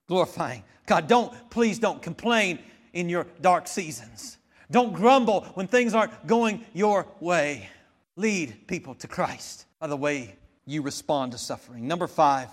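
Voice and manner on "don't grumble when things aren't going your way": ordinary talk, nothing marked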